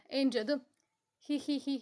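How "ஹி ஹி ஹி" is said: giggle. Acted. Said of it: "என்று சிரித்துவிட்டு".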